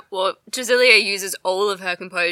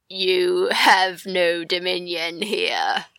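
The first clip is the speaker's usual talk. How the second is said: slow, ominous fish voice; much slower than usual. Acted. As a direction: intone it slowly like an eerie fish. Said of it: "Do a fish voice".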